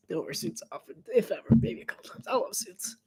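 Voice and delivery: soft whisper under the game audio; hushed aside. Real, not acted. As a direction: say it under your breath.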